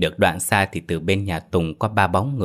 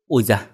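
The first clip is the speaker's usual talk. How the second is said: ouch; 3 semitones higher than usual. Acted. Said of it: "Anh la khẽ".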